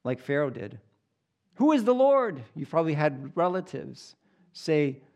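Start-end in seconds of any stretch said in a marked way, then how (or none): 1.5-2.4 scoffing unbeliever. Retold or imitated. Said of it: "unregenerate man has asked the same question".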